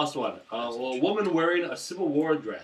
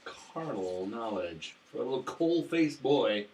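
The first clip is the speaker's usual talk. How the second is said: mock dramatic; slower than usual.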